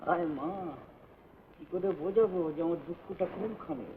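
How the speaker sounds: soft mutter under the breath. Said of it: "কি বকছিস বিড়বিড় করে?".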